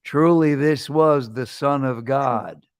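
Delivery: slow, stately mock film-cowboy delivery; a hint of a drawling movie soldier; John Wayne. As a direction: lightly imitate a cowboy star, stretching the words out. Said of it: "John Wayne is the soldier standing next to the cross".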